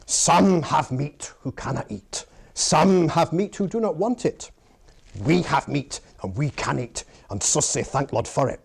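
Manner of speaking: measured Scottish recitation; Scottish grace. Acted. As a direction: say grace in a stately Scots accent. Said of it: "Yet in Scotland, they can be more sophisticated".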